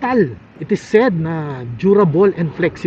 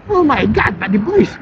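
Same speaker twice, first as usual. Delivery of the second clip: excited; 3 semitones higher than usual. Real, not acted. Thrilled by the smooth ride.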